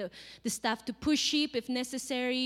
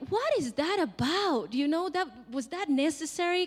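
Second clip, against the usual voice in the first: higher-pitched, puzzled objection; mock incredulous questioning; 4 semitones higher than usual. Congregation questioning God's miracle, mock incredulous. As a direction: voice a baffled listener's challenge.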